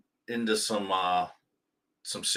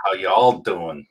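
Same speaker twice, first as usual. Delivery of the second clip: slow, louder Southern greeting; Southern twang; 6 dB louder, slower than usual. Shown as a demonstration. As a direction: drawl it like a Texan. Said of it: "you put a Southern twang on there".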